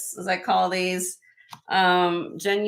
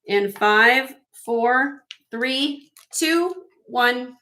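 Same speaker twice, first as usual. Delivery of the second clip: higher, evenly spaced count; auction countdown; 4 semitones higher, much slower than usual. Real, not acted. Seller closing the bidding for a buyer, measured countdown. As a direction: count it off number by number, pitched up.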